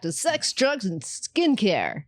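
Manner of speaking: slow, measured news anchor read. Acted. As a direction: deliver it like the evening news. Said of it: "that sounded like a news anchor".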